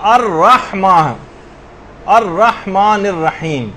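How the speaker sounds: الرحمن الرحیم slow, with breathy throat ح and long vowels; careful Quranic articulation. Shown as a demonstration. Teacher showing students the verse, careful slow articulation. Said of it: "خاص طور پر اس بات کا خیال کرنا ہے".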